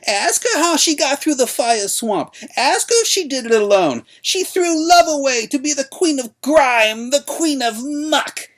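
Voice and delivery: high, loud, slow ranting hag; unquieted old crone. A narrator's reading. Old woman denouncing the queen to the crowd, high and loud. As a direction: rant on, refusing to be silenced. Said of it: "the old woman could not be quieted".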